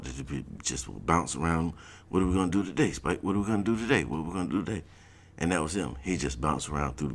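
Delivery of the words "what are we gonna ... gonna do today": eager yappy cartoon pup, higher; a lightly voiced Looney Tunes pup asking Spike; little cartoon dog. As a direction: bounce it like an excited little dog. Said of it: "that little dog".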